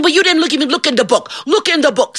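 high, protesting plea; insistent John. Acted. John argues with Saint Peter at the gates, insistent. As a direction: press the point insistently.

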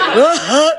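comic bursting sobs; gasping fake sobs; mock crying. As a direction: break into hammed-up boo-hooing. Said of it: "And he starts crying".

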